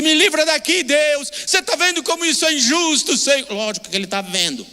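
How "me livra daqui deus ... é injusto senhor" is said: high, pleading, mock-whiny plea to God; mock complaining prayer. Mocking the wrong kind of prayer, whiny plea. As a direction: parody a self-pitying believer begging. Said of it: "Ora não no sentido de".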